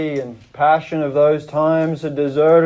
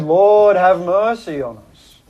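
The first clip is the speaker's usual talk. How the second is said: raised, earnest plea; cried out. Acted. Father on his knees crying to God for mercy, raised. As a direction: cry it out to God in despair. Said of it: "Mister Petherick cried".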